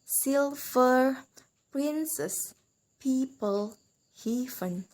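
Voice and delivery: "silver, princess, people, heaven", each stressed on the first syllable; "silver, princess, people, heaven" as careful stress examples. Shown as a demonstration. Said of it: "Same with".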